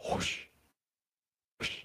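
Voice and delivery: soft, airy imitated whoosh; hushed sound effect of a far-off rush; distant whoosh. Game master sounding a noise in the distance, soft whoosh. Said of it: "in the distance, you hear".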